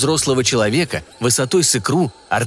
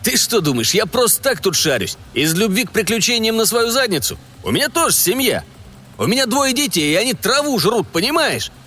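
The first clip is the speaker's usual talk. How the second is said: much higher, heated stalker voice; angry desperate stalker; 8 semitones higher than usual. A narrator's reading. Пень to his partner about his starving kids, heated and angry. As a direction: defend your own family's hunger.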